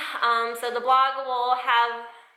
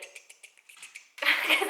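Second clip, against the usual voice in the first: imitating nail clicks; 6 semitones higher than usual. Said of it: "we just say, like".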